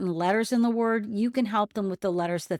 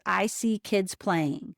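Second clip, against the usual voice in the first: slowly; slower than usual. Shown as a demonstration. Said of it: "say the sentence slowly".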